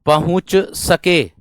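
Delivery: very slow, drawn-out ending; slow dictation. Shown as a demonstration. Teacher slowly dictates the sentence end. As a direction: drag the final words slowly. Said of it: "समय पर".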